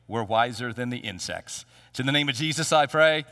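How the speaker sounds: leading the congregation in prayer. Real, not acted. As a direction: pray earnestly to the Lord. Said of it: "Let us pray".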